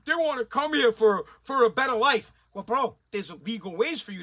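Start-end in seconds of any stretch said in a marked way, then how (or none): 0.0-2.3 mock naive plea. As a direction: imitate a naive bleeding heart. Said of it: "And everybody's like".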